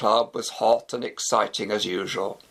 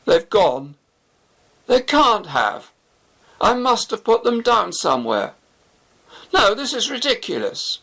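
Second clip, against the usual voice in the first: building from louder to higher, panicky; rising panic; 9 semitones higher, 4 dB louder than usual. A narrator's reading. Shafi searching his pockets, growing desperate panic. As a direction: voice climbing as he realises the keys are gone. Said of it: "looking increasingly desperate".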